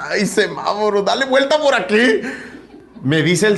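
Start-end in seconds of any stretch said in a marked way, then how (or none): 0.1-2.2 desperate. Retold or imitated. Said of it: "yo desesperado dije".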